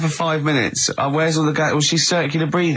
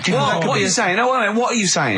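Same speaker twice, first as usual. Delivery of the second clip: indignant disbelief; 6 semitones higher than usual. Real, not acted. Challenging co-host's point.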